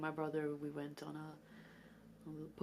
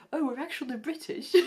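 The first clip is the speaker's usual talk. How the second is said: brother joking through a laugh, higher and louder; laughing mock British claim; 9 semitones higher, 9 dB louder than usual. Brother tells kids they're British, laughing. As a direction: giggle out the fake claim. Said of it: "And my brother's like".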